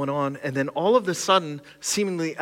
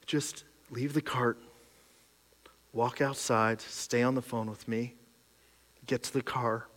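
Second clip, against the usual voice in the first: calm; 6 dB quieter than usual. Retold or imitated. Wife on the phone calmly guiding him out, soft and steady. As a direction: talk him down gently. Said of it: "And she calmly".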